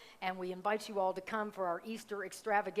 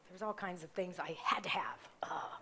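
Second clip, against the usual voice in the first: whispered aside; 2 semitones lower, 3 dB quieter than usual. Real, not acted. Confessing a shopping splurge aside.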